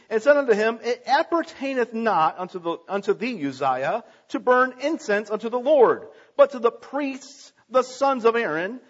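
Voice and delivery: measured, solemn Bible reading; formal King James reading to a congregation; scripture reading. Acted. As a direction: read the verses with weight and ceremony. Preacher reading scripture aloud.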